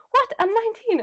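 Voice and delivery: high, baffled "I'm nineteen"; mock indignant girl; indignant surprise. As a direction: protest it like it's obvious. Girl retorting at ID check.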